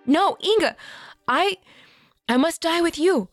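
desperate cry. Acted. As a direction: cry out refusing to go. Uma refuses to leave aunt.

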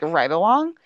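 a touch of annoyed disbelief, rising at the end; mildly shocked. Retold or imitated. Smitty asks Gray about a ride along, mildly shocked. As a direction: lightly imitate someone taken aback. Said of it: "his face kind of gets annoyed, but also, like, a little shocked".

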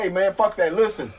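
urgent to get her attention. Retold or imitated. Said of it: "I said".

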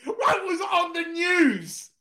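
high-pitched question through real laughter; laughing disbelief. Real, not acted. Host laughing at the clip on the news. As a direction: squeal it out while cracking up.

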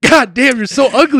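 high, loud heckling; mock disgusted outburst. Viewer reacting to woman on livestream, mock disgust. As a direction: cry out in exaggerated dismay.

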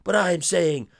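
put-on Guile in a Dutch accent. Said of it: "It's a good little Dutch accent".

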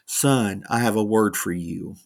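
a hushed, plain repeat; quiet retelling. Retold or imitated. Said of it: "Same exact words".

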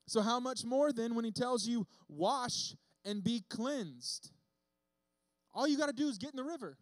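emphatic preaching. Real, not acted. Preacher presses the point.

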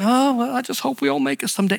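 quick, half-hearted wishful shrug; mock a vague hopeful believer; mock doubtful believer. Preacher mimics unsure believers, lightly mocking.

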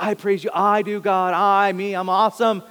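lightly mock the worshipper who's really praising himself; self-absorbed worshipper. Pastor mocks a churchgoer singing to himself, hammed-up pride. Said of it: "We're like".

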